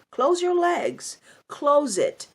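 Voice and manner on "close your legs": slow and punched, a bit higher; slow scolding command; slow, stern command. Real, not acted. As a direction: spell it out word by word. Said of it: "commands mothers".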